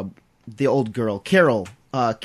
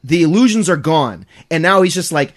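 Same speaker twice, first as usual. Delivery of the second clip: ordinary delivery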